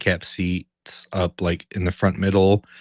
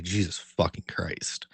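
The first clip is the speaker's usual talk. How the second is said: exasperated mutter; 5 semitones lower, 9 dB quieter, slower than usual. Retold or imitated. Exasperated after the phone call.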